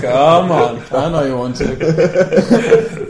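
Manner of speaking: slow, creepy coaxing. Pretend. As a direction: lure them in slowly. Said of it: "You sounded like a, such a big rapist now".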